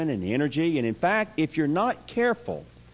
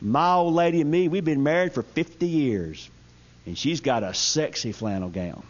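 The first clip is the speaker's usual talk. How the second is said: lightly voiced old codger telling a secret; a hint of a mischievous old-timer. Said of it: "this is how he said it".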